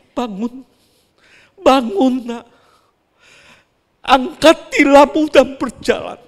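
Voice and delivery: loud, high command to rise; Jesus commanding. Acted. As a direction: call the lame man up with authority. Jesus commands the paralysed man. (perintah Yesus yang lantang)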